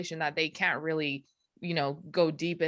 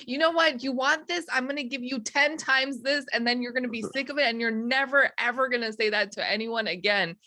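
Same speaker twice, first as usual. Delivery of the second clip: defiant retort; 5 semitones higher than usual. Retold or imitated. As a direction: throw it back at them. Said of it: "I'm like".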